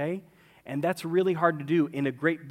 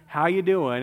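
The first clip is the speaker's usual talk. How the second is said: sincere question; 5 dB louder than usual. Real, not acted. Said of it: "I'm looking right in your eyes".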